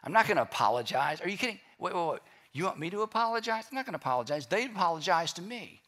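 mock outraged, pitch rising on the question; hammed-up offended pride; indignant refusal. Preacher mocking a proud person who refuses to apologize. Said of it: "it's pride".

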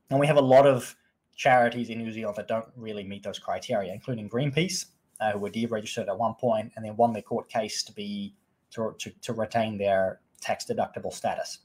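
hoarse, fading voice; straining through a worn-out voice. Real, not acted. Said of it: "I'm losing my voice here".

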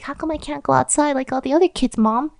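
a hint of a child's plea; questioning child. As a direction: ask Mom why, like a puzzled kid. Kid questions mother in told story.

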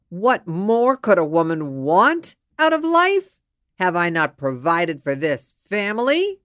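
loud, indignant rhetorical questions; insulted husband. Acted. Insulted husband challenging his wife, indignant. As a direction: demand answers with offended pride. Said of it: "The minute he is insulted".

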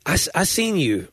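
put-on Southern accent. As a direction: quote folks from the South, voice lifted. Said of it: "I've heard people say in the South".

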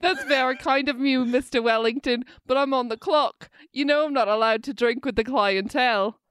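put-on amateur British accent, carefully held; shaky British accent. Waitress tells client she's on the clock, attempted British accent. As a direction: have another go at polite British. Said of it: "It's falling apart".

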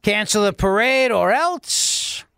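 slow, mildly menacing governor parody; mock Cuomo threat. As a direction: lay down a mock ultimatum, slowly. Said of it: "his governor voice".

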